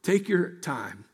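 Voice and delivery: a lightly voiced father, quietly comforting; tender reassurance. Heavenly Father reassuring a discouraged believer, softly. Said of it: "our Heavenly Father is saying to you".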